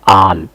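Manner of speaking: "आल" with a long open aa. Shown as a demonstration. Teacher showing A sounds like aa, long open vowel. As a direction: stretch the vowel in "आल" as aa. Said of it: "आ तलफ़ुज़ हो गया है".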